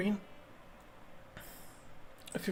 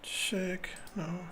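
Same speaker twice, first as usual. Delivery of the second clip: whisper; 5 dB quieter, much slower than usual. Real, not acted. Player whispering candidate moves.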